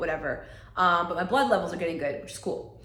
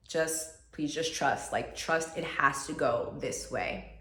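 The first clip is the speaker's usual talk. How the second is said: gentle calm voice; 4 semitones lower, 5 dB quieter, slower than usual. Retold or imitated. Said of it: "the message I received".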